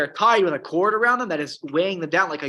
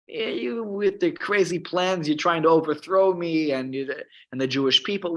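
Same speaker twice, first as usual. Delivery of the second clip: mocking God; 3 semitones higher than usual. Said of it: "God is mocking them".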